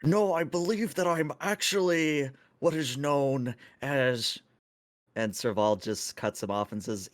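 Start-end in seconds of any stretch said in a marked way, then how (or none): 0.0-4.4 high-pitched, lilting Tholian voice; chittering alien. Acted. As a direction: speak as a fussy, high-voiced alien crewmate. Plays Zyvor the Tholian.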